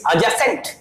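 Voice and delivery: slow, careful adjacent, D silent; silent-D pronunciation. Shown as a demonstration. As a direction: adjacent drawn out with no D sound. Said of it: "D silent".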